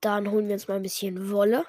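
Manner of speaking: "ein bisschen" leaned on a little; stress on ein bisschen. Real, not acted. Gamer joking to viewers about buying wool, light stress on "ein bisschen". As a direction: give "ein bisschen" a slight push. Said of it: "Betonung liegt auf ein bisschen".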